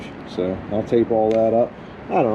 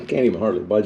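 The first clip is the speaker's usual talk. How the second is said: 1 straining, worn out; faster than usual. Real, not acted. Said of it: "I've been wore out".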